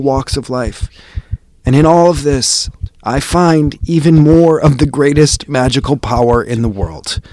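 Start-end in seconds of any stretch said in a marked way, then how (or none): 1.6-7.2 much louder and higher, ecstatic; soaring climax. Real, not acted. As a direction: build to the peak. Climactic exclamation about love.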